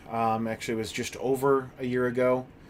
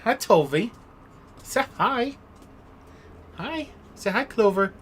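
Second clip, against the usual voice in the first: high excited dog greeting; pet talk; 9 semitones higher than usual. Real, not acted. Streamer greets her dog Clover, high excited pet talk.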